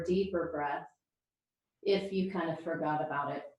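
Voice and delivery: calm yoga breathing guidance with long pauses; guided relaxation. Real, not acted. Yoga teacher settling the class into breath, calm guided relaxation. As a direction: ease them into breathing, leaving space between phrases.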